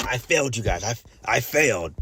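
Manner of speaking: lightly voiced dramatic villain lament; a hint of a hammed-up cartoon bad guy confessing defeat; mild mock supervillain moan. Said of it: "a Saturday morning cartoon supervillain".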